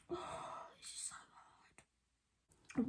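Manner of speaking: real tearful whisper, very soft and slow; breath gives way to silent crying; fighting tears. Real, not acted. Mother recalling handing her baby over, fighting tears. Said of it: "Really try not to cry".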